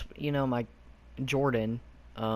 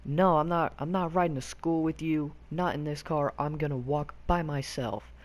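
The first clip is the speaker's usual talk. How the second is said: retold screaming; 3 semitones higher than usual. Brother refusing to ride with Jordan, high mock scream fading. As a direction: shout the refusal, then let it drop off. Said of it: "he's all screaming".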